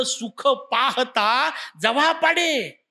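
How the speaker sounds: slow, stretched verse line; exclaimed verse. Shown as a demonstration. Preacher quotes Tukoba's line as an exclamation, drawn out. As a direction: draw out each word of the verse. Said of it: "हे तुमचे माझे उद्गार त्यांनी लिहिले".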